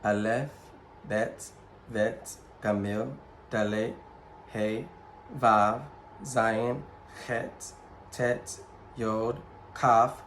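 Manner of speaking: letters again with shorter pauses. Shown as a demonstration. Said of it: "Let's read it one more time".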